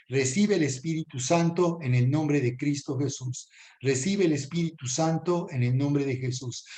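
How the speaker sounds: earnest, even-toned blessing; prayer of blessing. Real, not acted. Prays over the viewers.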